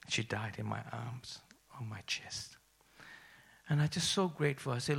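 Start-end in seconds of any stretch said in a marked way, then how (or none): 0.1-2.6 hushed. Real, not acted. Telling of mother's death.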